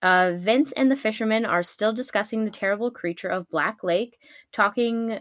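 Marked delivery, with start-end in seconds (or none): none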